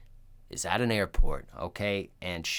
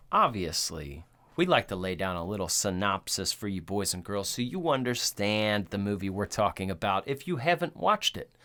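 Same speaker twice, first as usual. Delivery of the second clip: normal talking voice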